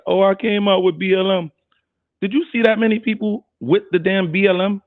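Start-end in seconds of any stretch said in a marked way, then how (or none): 0.1-1.5 mocking. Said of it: "This is what they try".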